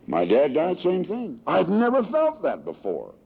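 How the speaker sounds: high-pitched retold anguish, no real sobs; retold bawling. Grieving man confessing to his friend, imitating his bawling. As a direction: imitate a bewildered wail, pitch staying high. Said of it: "And I'm bawling".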